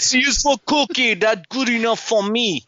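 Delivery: gobble it out like Cookie Monster. Retold or imitated. The actor's accent as Cookie Monster, goofy monster voice. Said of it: "Cookie Monster".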